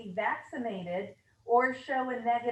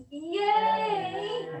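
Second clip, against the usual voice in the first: high, thrilled little cheer; excited yay; 9 semitones higher, 4 dB louder than usual. Real, not acted. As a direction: squeal it with glee. Cheering about no sign-ins.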